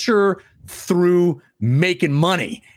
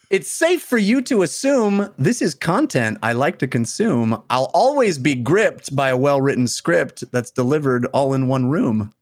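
limerick recitation. Acted. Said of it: "That was delightful".

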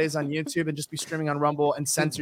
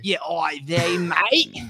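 put-on Jewish Australian accent; much slower than usual. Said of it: "they have a weird voice out here".

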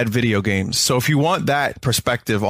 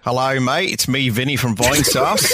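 laughing self-introduction. Real, not acted. Guest jokes about his own name.

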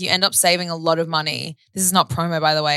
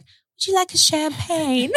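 flight attendant voice; 10 semitones higher, slower than usual. Retold or imitated. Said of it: "the lady's like".

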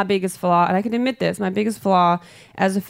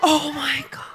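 high, breath-catching mock horror; shocked; 5 semitones higher, slower than usual. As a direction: act scandalized by the lyrics. Acts shock at lyrics.

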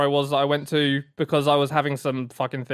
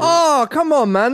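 high, exasperated come on; playful protest; 10 semitones higher, 3 dB louder, slower than usual. Real, not acted. Teasing a friend who won't greet fans, high exasperated protest. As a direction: push back on him, half-laughing.

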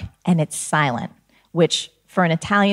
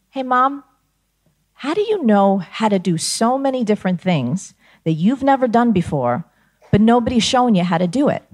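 put-on curious child; 5 semitones higher than usual. Child asking mom the question.

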